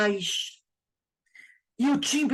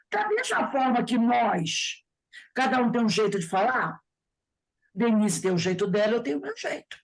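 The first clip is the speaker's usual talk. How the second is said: usual speaking voice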